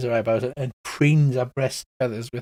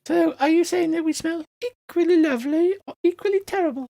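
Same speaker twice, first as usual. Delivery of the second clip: small, very high squeaky voice; squeaky flower; 14 semitones higher than usual. Acted. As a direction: squeak it like a tiny boastful flower. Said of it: "a small squeaky voice".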